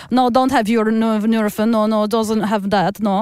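imitating a Russian mum's broken English; lightly hammed Russian accent. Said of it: "I am being generous with this accent".

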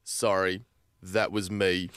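low-pitched sheepish confession. A narrator's reading. Man owning up to the screaming, sheepish. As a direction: own up sheepishly, voice dropped low. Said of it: "starts to look a little sheepish".

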